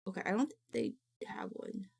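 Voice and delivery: fast unvoiced whisper. Real, not acted. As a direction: whisper it quickly to yourself. Whispered aside.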